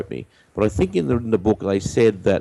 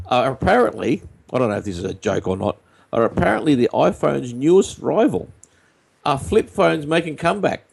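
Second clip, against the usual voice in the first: put-on old radio voice; 3 semitones higher than usual. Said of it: "the old radio voice".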